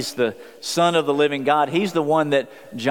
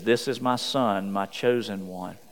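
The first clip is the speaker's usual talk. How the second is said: hushed, gentle reading of the Father's words; soft reading; 4 semitones lower, 5 dB quieter than usual. Shown as a demonstration. Preacher reading the Father's words softly to the congregation. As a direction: let the words fall quietly. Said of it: "we not, not miss what he says after that".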